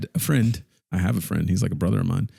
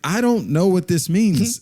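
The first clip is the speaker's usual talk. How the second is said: confused; 10 semitones higher, 4 dB louder, slower than usual. Retold or imitated. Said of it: "And I'm like".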